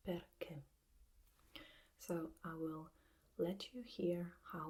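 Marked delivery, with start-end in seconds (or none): 0.1-0.6 Perché with the weight on -ché; Perché, accent falling on the closed final e; stress on last syllable. Shown as a demonstration. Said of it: "we have to stress the last syllable".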